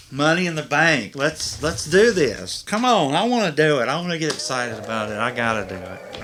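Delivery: high, loud hype-up shouting; pumped up. Real, not acted. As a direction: psych yourself up like a wrestler. Pumping himself up.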